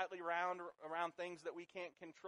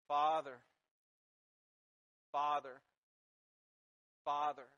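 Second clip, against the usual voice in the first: crying out; 2 semitones lower, 6 dB louder than usual. Acted. Crying out to God.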